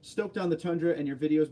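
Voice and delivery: ordinary talk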